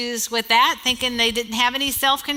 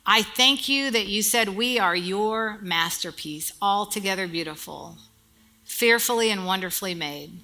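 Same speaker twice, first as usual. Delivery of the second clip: prayer. Acted. Pastor leads the congregation in a closing prayer, reverent. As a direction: pray over the mothers gently.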